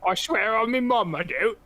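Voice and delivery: mock British geezer swearing on his mum; British chav accent. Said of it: "all British and shit".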